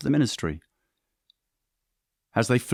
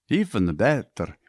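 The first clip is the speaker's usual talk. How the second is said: excited; slower than usual. Acted. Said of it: "he said with excitement".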